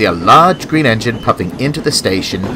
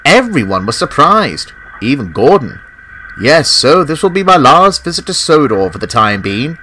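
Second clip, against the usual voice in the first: higher, bright engine voice full of news; cheerful Scott; 3 semitones higher than usual. Acted. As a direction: share exciting news as a proud engine.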